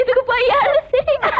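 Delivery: high laughing outcry; laughing disbelief; laughing shout. Acted. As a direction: laugh out the question. Friend laughs and shouts at story.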